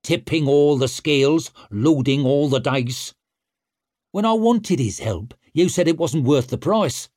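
put-on loud, cocky young war leader; brash young warrior. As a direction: swagger through it. Stour arguing.

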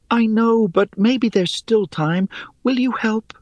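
high, pleading voice; pleading Rhea. Acted. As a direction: beg for help, reaching up.

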